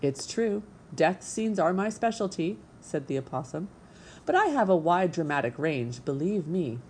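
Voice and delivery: a vain little stage diva; theatrical opossum. Acted. Opossum boasting of her range.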